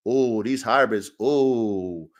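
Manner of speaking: low, reverent inner gloating; dreamy inner voice. Retold or imitated. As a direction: daydream about the perfect litter. His own excited thoughts.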